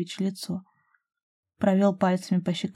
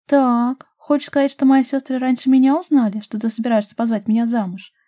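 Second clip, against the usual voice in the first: high, loud, indignant questioning; 5 semitones higher, 6 dB louder than usual. A narrator's reading. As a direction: demand an answer, outraged. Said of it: "возмутилась Дашка". (возмущённо, на повышенных тонах)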